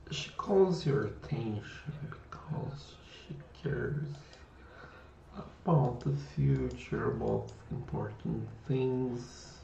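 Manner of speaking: hushed unvoiced whisper. Real, not acted. Whispering to someone upset about the future. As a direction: whisper it gently to calm them.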